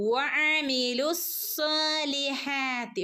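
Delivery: slow വഅമിലുസ്സാലിഹാത്തി with rounded lips on വ; rounded waw. Shown as a demonstration. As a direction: round the lips for വ, recite slowly. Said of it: "ചുണ്ടിനെ സർക്കിളാക്കി പറയാ". (ചുണ്ട് വട്ടമാക്കി വ)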